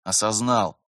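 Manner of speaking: subdued, resigned confirmation; dejected. A narrator's reading. Vitaly confirms to his mentor, dejected. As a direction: give in glumly. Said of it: "уныло подтвердил Виталий".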